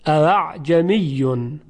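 اعجمیون said slowly, second hamza softened toward alif; tashil on second hamza. Shown as a demonstration. Teacher models the correct softened hamza, slowly. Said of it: "میگوییم اعجمیون".

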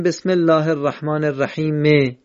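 "الرحیم" halted on a voiced short e, rahime; wrong stop with vowel. Shown as a demonstration. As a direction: stop after "الرحیم" but keep its kasra audible. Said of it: "یعنی نمیشه بگیم".

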